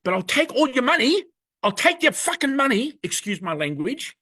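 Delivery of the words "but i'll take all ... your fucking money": louder, higher sneering take on him; mock greedy plaintiff. Mocking Nick on Channel seven, a loud greedy sneer. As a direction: make him sound grabby and loud. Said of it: "I heard him on Channel seven saying".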